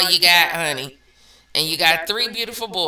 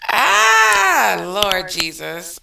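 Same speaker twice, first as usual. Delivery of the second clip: exasperated; 3 dB louder, much slower than usual. Real, not acted. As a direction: throw hands up in disbelief. Exasperated cry at comment.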